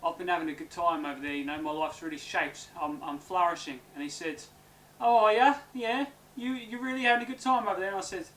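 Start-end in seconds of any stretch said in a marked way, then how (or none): 0.1-3.8 lower-pitched, understated reassurance; low-key boast. Retold or imitated. Man tells brother his trip went fine, low-key boast. 5.0-7.9 higher-pitched retold challenge, loud opening; questioning echo. Brother questions man's good time abroad, higher questioning voice. Acts brother's reply to that claim.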